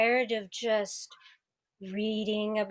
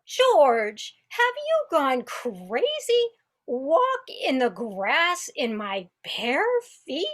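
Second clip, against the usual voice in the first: shocked disbelief; 3 semitones higher, 3 dB louder than usual. Acted. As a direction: recoil at the wild idea. Violet shocked at George's idea.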